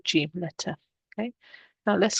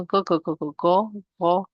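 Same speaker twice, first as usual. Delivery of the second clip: gargling go, go, go in the throat; go, go, go like gargling water; while gargling. Shown as a demonstration. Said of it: "if we just do the gargling sound".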